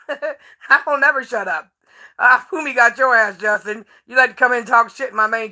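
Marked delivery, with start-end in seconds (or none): 0.1-1.7 slow, laughing through it. Real, not acted. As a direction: laugh while you say it, slowly. Repeats line laughing.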